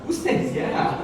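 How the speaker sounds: breathy laughing, high; laughing disbelief. Real, not acted. Pastor laughing at congregant who said yeah, high and breathy. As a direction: laugh it out at the heckler. Reacting to audience yes.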